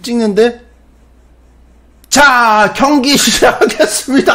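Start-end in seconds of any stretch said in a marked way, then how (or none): 2.1-4.3 loud, high, stretched announcer call; imitated host shouting over a crowd; match announcer. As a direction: announce the match start at full voice.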